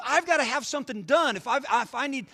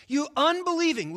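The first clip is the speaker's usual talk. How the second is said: a touch of a raised, rebuking voice; stern rebuke; 6 semitones higher, 5 dB louder than usual. Acted. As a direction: scold the unbelieving crowd, higher and louder. Jesus rebuking the faithless crowd.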